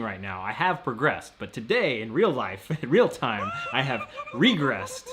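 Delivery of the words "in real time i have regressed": laughing. Real, not acted. Laughing at own regression.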